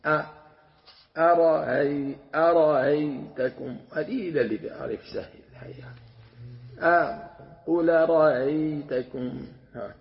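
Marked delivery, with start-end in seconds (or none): 1.2-3.8 "أرأيتكم" slow, second hamza eased between hamza and ha; eased hamza demo. Shown as a demonstration. Teacher demonstrates the in-between hamza of Warsh, slowed. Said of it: "بين الهمزة والهاء". 7.7-9.5 "قل رأيتكم" drawn out and slightly raised; slow recitation demo. Shown as a demonstration. Teacher repeats the reading for students, slow demo. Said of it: "وحكى أبو عبيد عنه".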